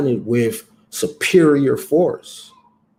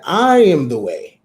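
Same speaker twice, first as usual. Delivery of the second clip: bold proclamation; 2 semitones higher, 4 dB louder than usual. Retold or imitated. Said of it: "and he said".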